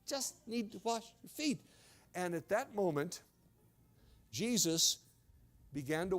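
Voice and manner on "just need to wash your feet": calming reassurance. Acted. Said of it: "like Jesus had to calm him down".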